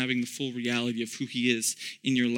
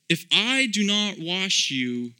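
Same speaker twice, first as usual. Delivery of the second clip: slow, calm and humble; 3 semitones higher, slower than usual. Acted. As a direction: say it gently but with weight. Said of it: "in a very humble, a very calm way".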